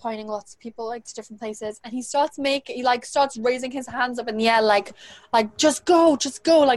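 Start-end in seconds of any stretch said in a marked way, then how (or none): 5.6-6.6 loud, slow, drawn-out, angry raised shout. Retelling a man raising his hands at her: imitating someone shouting. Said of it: "shouting at me type thing".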